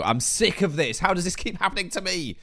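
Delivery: rising, exasperated complaint; fed up, pitch climbing as you protest. Real, not acted. Gamer fed up with power cuts, exasperated.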